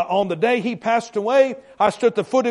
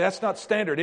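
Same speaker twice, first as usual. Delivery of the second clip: doubtful objection; 6 dB quieter than usual. Retold or imitated. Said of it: "you say".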